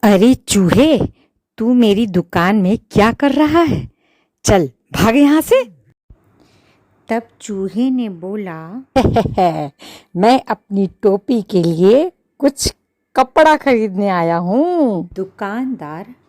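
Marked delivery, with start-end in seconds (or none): 0.0-5.6 loud, fast shout to chase off a mouse; angry shopkeeper yelling. Acted. Shopkeeper shoos away the mouse. 10.2-15.1 cheeky mouse. Acted. Mouse answers the shopkeeper.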